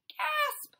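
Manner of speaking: high, loud dramatic gasp; hammed-up gasp. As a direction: gasp it out theatrically. Fish near death.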